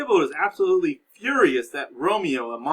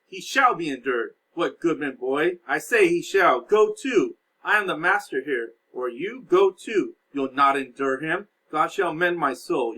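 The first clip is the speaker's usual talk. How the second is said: angry Capulet; 3 semitones higher, 4 dB louder than usual. Acted. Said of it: "Lord Capulet's like".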